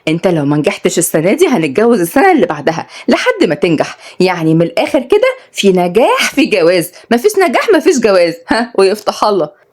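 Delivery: lightly voiced, playful and firm; teasing young woman.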